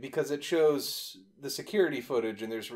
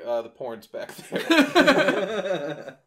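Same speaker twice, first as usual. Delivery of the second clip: deadpan clerk; 5 semitones higher, 7 dB louder, much slower than usual. Pretend. Clerk imitated, dry.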